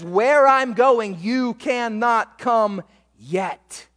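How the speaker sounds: "Where" hit loud, then "cannot come yet" very slow; slow, weighty. Retold or imitated. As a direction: let "yet" hang as the point. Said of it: "He doesn't answer the where, he puts the emphasis on the when".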